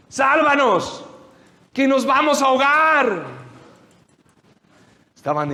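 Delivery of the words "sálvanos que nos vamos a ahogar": high, loud, desperate plea; panicked cry. Retold or imitated. Terrified disciples begging Jesus to save them, high desperate shout. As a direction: beg for rescue as the waves pour in.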